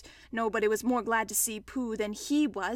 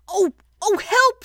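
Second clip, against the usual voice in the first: loud, high cry for help; alarmed cry; 9 semitones higher, 10 dB louder, slower than usual. Acted. Pooh stuck in the hole, alarmed. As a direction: call out in sudden alarm.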